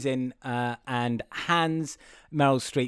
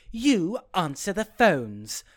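slow, higher-pitched overplayed delivery; hammed-up movie line; 4 semitones higher, slower than usual. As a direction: play up a badly written line. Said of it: "horribly written line where she was like".

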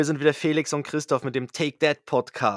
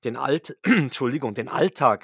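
rough, failing voice; hoarse voice. Real, not acted. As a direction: voice cracking and cutting out. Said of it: "Oh, meine Stimme ist weg".

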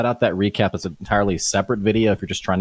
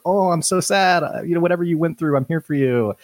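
high, fast, gushing comfort; gushing sympathy; 8 semitones higher than usual. Retold or imitated. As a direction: pour on the sympathy. Everyone comforting Erica, exaggerated.

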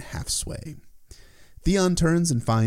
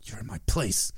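hissing whisper; 6 dB quieter than usual. A narrator's reading. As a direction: hiss it close and quiet. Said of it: "he hissed in her ear".

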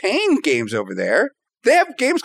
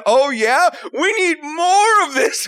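excited shout; 5 semitones higher than usual. Retold or imitated. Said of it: "we said".

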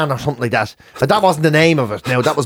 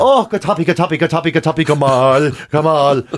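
Irish comedy routine; 4 semitones lower than usual. Retold or imitated. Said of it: "in Irish he used to do on stage".

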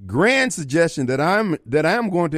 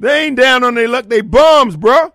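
louder, heated retort; real annoyance, voice raised; getting mad; 5 semitones higher, 7 dB louder than usual. Real, not acted. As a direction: bark it back, irritated. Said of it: "don't, don't get mad".

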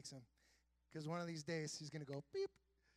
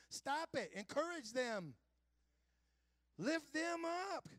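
loud, high, urgent appeal; emphatic command; 11 semitones higher, 4 dB louder, much slower than usual. Real, not acted. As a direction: call them to lift others. Preacher urging congregation.

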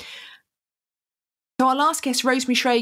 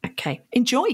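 whispered. Real, not acted. Signing off the podcast intro.

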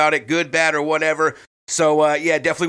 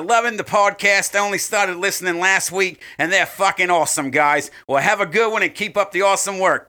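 mock Australian accent; 3 semitones higher than usual. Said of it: "I'm gonna do it in the fucking offensive accent".

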